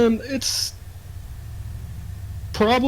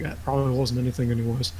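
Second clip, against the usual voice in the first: softer, lower shrug-off; muttered to himself; 3 semitones lower, 6 dB quieter than usual. Acted. Guard talks himself out of checking the closet, softer. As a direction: dismiss it under your breath. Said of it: "and he's like".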